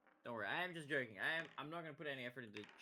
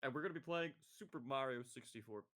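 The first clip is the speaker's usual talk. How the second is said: forced know-it-all voice. Shown as a demonstration. Streamer announcing a game to viewers, mock knowledgeable. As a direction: sound like you know everything, voice slightly forced. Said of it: "I just gotta sound like I'm knowledgeable".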